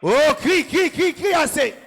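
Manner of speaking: rally the church like a commander; fervent preaching. Acted. Pastor drives the crowd to shout down their problems.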